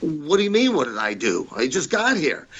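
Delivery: imitated indignant confusion; retold baffled protest. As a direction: act out being wrongly accused. Protesting innocence to angry Fuji.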